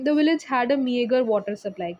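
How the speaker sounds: slow, clear sentence for learners; slow example reading. Shown as a demonstration. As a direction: read it slowly to the class. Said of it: "reads the example sentence". (उदाहरण वाक्य धीरे धीरे पढ़ना)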